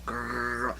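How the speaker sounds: low zombie growl. Shown as a demonstration. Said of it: "make a zombie noise".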